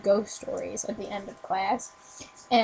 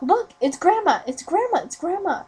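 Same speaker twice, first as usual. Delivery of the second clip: put-on high, loud kid's exclamation; high-pitched, repeated mock-child cries; imitated excited kids; 7 semitones higher, 5 dB louder than usual. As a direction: play kids excitedly pointing someone out. Kids spot grandma in picture book.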